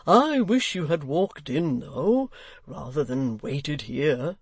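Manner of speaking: put-on the old locksmith, gently chiding. Locksmith speaks.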